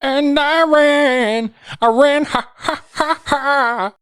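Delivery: high giggly running voice; giggling. Retold or imitated. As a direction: giggle while you run.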